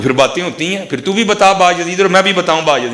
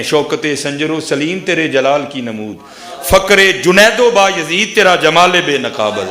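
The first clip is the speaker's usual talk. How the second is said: slow, declaimed Urdu couplet, building louder; verse recitation; 4 dB louder, slower than usual. Acted. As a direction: declaim the verse slowly, swelling on the second half.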